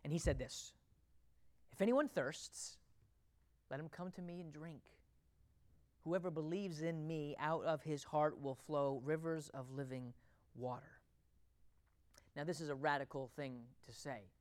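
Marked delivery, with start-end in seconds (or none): 1.7-11.0 hushed, lower quoted invitation; Jesus preaching. Retold or imitated. Preacher quoting Jesus's invitation to the thirsty, soft and low. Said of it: "One time Jesus was preaching".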